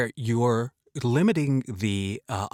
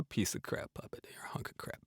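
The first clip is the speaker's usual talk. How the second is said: teasing stage whisper; 3 semitones lower, 15 dB quieter than usual. Real, not acted. Host whispering a teasing jab at the puppet Elmo.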